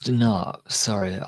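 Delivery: tipsy, words dragging a bit. Real, not acted. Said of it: "can you tell I'm tipsy?".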